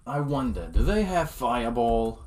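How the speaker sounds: attempted Australian accent. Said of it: "we're just gonna talk".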